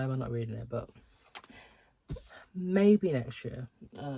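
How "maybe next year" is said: sing-song. Real, not acted. Jokingly putting off reading.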